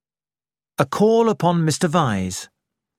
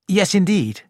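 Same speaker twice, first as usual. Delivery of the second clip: warmly; 5 semitones higher than usual. Acted. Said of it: "I added warmly".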